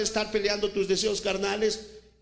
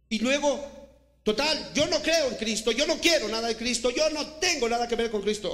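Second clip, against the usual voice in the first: higher, louder scoffing voice of an unbeliever; mock defiant unbeliever; 5 semitones higher, 4 dB louder than usual. Preacher mocks an unbeliever refusing Christ, raised scoffing voice. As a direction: toss it off like someone who wants nothing of Christ.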